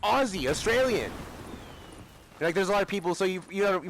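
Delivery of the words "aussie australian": raised, sneering mock voice, pitched higher; mocking society's advice. Mocking the people who tell him to give up, higher sneering voice. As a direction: parrot the put-downs in a higher, taunting tone.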